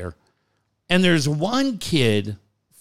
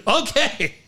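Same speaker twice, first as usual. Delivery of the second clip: put-on meek kid reply; 8 semitones higher than usual. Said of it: "And the kid goes".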